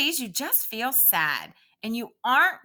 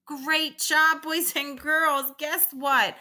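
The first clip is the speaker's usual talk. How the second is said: cheerful praise; 6 semitones higher, slower than usual. Shown as a demonstration. Teacher praising young viewers.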